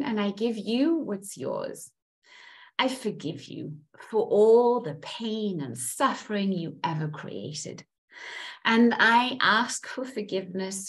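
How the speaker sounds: earnest guided affirmations; guided release ritual. Acted. Coach guiding group to cut karmic links, calm ritual voice. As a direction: lead them calmly through letting go.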